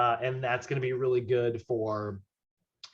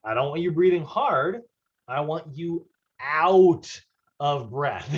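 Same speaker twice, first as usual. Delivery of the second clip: coach instruction. Retold or imitated. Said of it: "I will often describe it as".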